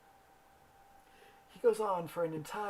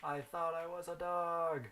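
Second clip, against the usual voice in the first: imitating an overdramatic cry, not a full scream; mock scream; 3 semitones higher than usual. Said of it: "He's screaming".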